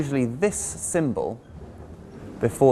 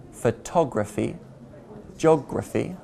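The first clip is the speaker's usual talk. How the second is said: photography and geography stressed on tog and og, before graphy; stress before ending. Shown as a demonstration. Teacher showing the graphy ending, stress before it. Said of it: "we generally stress the syllable before the ending".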